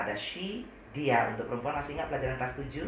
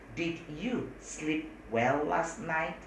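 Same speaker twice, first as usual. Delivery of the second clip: even slower, careful English; slower model sentence; much slower than usual. Shown as a demonstration. Teacher repeats the question even slower. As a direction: stretch each word for students. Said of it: "apakah pakai did".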